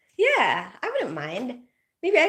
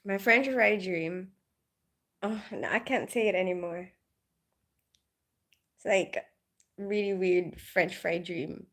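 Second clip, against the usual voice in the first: shy; 3 semitones lower, 7 dB quieter than usual. Real, not acted. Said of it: "Now I feel shy to repeat it".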